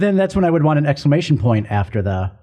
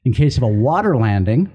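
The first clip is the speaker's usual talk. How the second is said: flight attendant voice; 2 semitones lower than usual. Acted. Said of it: "my flight attendant voice".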